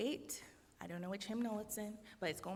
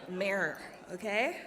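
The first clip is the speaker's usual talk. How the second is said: laughing mirror; 5 dB louder than usual. Shown as a demonstration. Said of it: "however you say".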